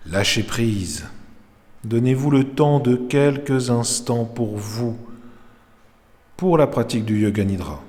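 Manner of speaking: measured Yoga Nidra instruction with long pauses; calm meditation teacher's voice; guided meditation. Real, not acted. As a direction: guide them into rest, phrase by phrase. Leads Yoga Nidra session.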